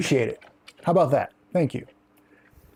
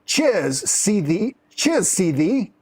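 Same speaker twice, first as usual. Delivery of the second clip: Yorkshire farewell; 2 semitones higher, much slower than usual. Shown as a demonstration. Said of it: "Is that how you say that?".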